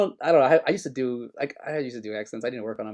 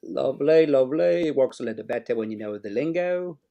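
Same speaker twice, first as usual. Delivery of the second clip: playful put-on British lilt; British accent; 3 dB louder than usual. Co-host showing off the lingo, put-on British accent. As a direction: do a chirpy mock British accent. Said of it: "doing your best British accent for us".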